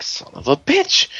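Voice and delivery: very high, squealed curse; mock outraged yell. Heroes shrieking as the thief runs off with the card.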